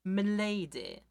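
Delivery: mock gallant fedora guy bowing; lightly voiced neckbeard tipping his hat; a hint of smarmy chivalry; fedora milady. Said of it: "tips the fedora to people to be like".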